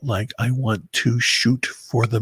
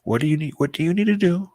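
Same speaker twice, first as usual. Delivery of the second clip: mirror pep talk; 6 semitones higher, faster than usual. Retold or imitated. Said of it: "look at myself in the mirror and say".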